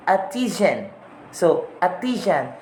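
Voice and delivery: "artisan" as "ah-tizhan", no R; British "artisan", R missing; British dropped R. Shown as a demonstration. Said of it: "R there becomes missing".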